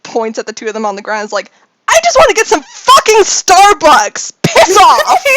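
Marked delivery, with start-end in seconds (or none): 1.9-5.2 loud and higher, fed-up shout; annoyed tough guy blowing up; angry yell. Acted. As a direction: bark it at the two on the ground. Brawler yells at fallen pair.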